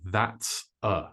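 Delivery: "that's a" run together very short; quick and short. Shown as a demonstration. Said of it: "Notice how fast I say".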